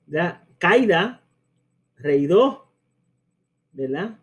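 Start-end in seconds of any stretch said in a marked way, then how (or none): 0.6-2.7 Caída as CAI-da, reído as REI-do; mispronounced diphthongs in Caída, reído; missing hiatus. Shown as a demonstration. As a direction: glide the vowels of Caída and reído together. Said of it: "estos hiatos, ahí diría".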